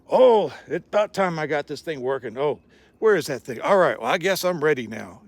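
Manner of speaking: a hint of a camper talking to himself; mock self-talk. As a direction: play a man narrating his chores to the world. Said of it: "talking to themselves like that".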